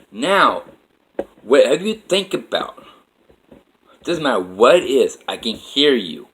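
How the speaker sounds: acting out an indignant confrontation; angry scolding. Woman's voice confronts him, acted out.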